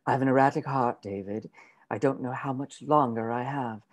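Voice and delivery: breathy frail whisper. Acted. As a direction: whisper it like a dying woman. Aunt pleading frailty.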